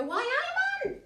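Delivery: exaggerated Geordie exclamation, pitch leaping up; Geordie accent. Ex-Newcastle local recalling how they talked in Bristol, Geordie accent. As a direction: call it out in broad Newcastle dialect. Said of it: "I used to go".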